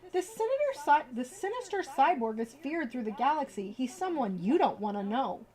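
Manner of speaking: lively storybook read-aloud; reading to children. Acted. Streamer reading a bedtime book to viewers, lively storybook voice.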